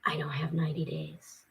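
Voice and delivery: near-whisper, very soft; hushed despair. Real, not acted. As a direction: let it out almost without voice. Facing homelessness, shelter wait too long.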